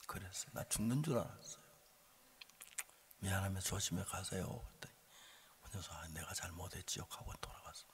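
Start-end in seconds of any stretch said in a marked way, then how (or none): 0.5-4.5 soft retold admission; subdued, conciliatory send-off; gentle apology. 5.9-7.1 low, hushed retold admission; subdued mock-up of a driver's apology; meek apology.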